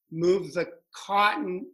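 imitated Boston accent, drawn out; slow mock Boston accent. Friend mimics how she used to say it, Boston accent. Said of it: "Was that the Boston accent".

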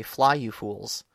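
heroic last words. Retold or imitated. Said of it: "square off against the Balrog and say".

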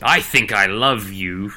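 low, slow love confession; deep and unhurried; masculine voice. Pretend. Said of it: "such a masculine voice".

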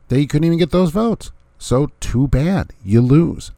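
taunt. Real, not acted. Taunting losing candidate.

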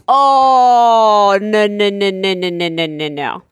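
loud start, tumbling down in pitch; long mock-horrified oh, then a falling string of noes; exaggerated protest, fading as it drops; indignant refusal. Wife's mock outrage at husband's line.

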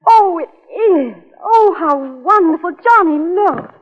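slow, tearful delight, voice catching; overjoyed. Acted. Wife opening her father's wedding present, choked with joy. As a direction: let joy nearly tip into tears.

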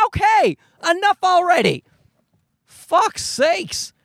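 high-pitched exasperation; fed up. Retold or imitated. Dad answering the nanny about curly hair, exasperated. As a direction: cut them off in high, exasperated protest.

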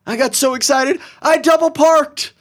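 giddy over-the-top excuse; mock excited voice. Mocking an excited criminal.

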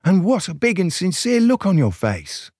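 high, wide-eyed amazement; gasped. A narrator's reading. Soberina marvelling at Grandma's face, gasped. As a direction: exclaim in mock storybook wonder. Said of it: "gasped Soberina".

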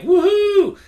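high, loud whooping cheer; excited cheer. Retold or imitated. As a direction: shout it like vacation just started. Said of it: "I'm all like".

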